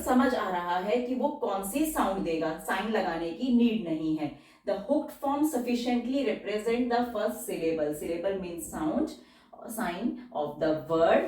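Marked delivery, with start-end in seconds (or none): 4.7-11.2 slow rule reading. Shown as a demonstration. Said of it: "reading rule slowly".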